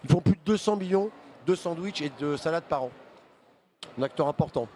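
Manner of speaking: talking with a mouth full; speaking while chewing a sandwich. Real, not acted. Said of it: "j'ai un peu la bouche pleine".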